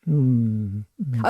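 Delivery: low hummed lion growl. Acted. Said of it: "Okay, give us a lion".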